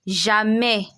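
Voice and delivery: "Jamais" ending in an eh sound, no S; French open E. Shown as a demonstration. Teacher repeats the word after the rule, careful French pronunciation. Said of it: "This A I S has an E sound".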